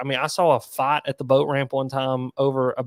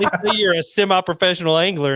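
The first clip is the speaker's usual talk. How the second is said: laughing; 5 semitones higher, 4 dB louder than usual. Retold or imitated. Buddy reporting the club's reason.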